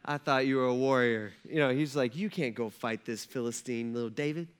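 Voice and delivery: low, soft, patronizing; Saul. Retold or imitated. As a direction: talk down gently, as if patting a child's head. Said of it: "just patting David on the head".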